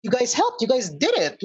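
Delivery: high-pitched, delighted disbelief; happy amazement. Acted. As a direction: marvel at the rescuers, voice lifted. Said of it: "like, amazed".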